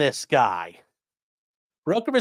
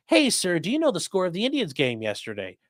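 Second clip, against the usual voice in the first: mock spy challenge; 4 semitones higher than usual. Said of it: "the challenge phrases".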